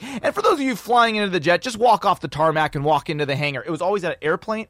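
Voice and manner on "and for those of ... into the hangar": announcer giving directions, starting high; Jim Powers. Retold or imitated. Hotline host directs arriving guests, mock announcer voice. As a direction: imitate a hotline host's hyped spiel. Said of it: "He would always be like".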